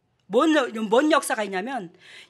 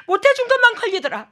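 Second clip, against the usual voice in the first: 것만 pushed higher and louder; 못해준 것만 said higher and louder than the first take; stronger regretful plea; 12 semitones higher, 8 dB louder than usual. Retold or imitated. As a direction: repeat 못해준 것만 harder, almost crying out. Regret repeated more strongly.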